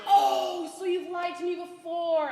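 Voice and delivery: loud, high outraged shout; angry shout. Acted. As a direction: explode at the lie. Aunt catches niece lying.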